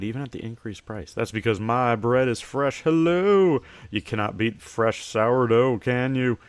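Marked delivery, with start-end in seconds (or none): 2.8-6.4 cheery shopkeeper. Acted. Shopkeeper hailing a customer entering the store, cheery and loud. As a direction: welcome customers like an eager shopkeeper.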